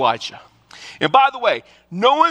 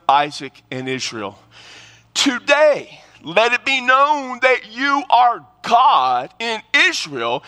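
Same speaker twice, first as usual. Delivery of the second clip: slow, earnest scripture prayer; preacher reading Elijah's prayer to the congregation, solemn. Acted. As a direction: lift the words up like a prayer. Reads Elijah's prayer aloud.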